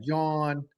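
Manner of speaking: "John" said as Philly "jawn"; Philly-accented "John", like "jawn"; Philly pronunciation. Shown as a demonstration. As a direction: round the vowel in "John" to an aw. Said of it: "Philly's like that".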